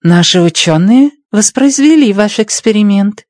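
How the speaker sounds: hint of a Chinese accent in Russian. A narrator's reading. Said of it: "произнесла с китайским акцентом".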